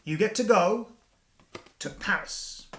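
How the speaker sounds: telling wife her Paris prize, hyped host voice; excited announcer. Retold or imitated. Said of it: "I go".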